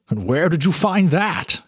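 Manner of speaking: a curious old shopkeeper, lightly put on. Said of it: "he asked her".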